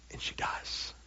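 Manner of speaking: fast geflüstert, kaum hörbar; whispered reveal. Acted. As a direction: breathe it like a secret. Hushed reveal of miracle.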